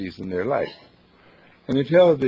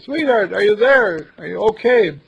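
loud, high call down to him; 9 semitones higher, 7 dB louder than usual. Acted. Calling down the cliff at daylight.

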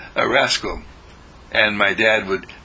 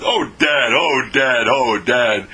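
playful exclamations to Dad, louder; oh-Dad cries, a bit louder; exasperated boy; 3 semitones higher, 4 dB louder, slower than usual. Acted. Boy teased by his father, playful louder exclamation.

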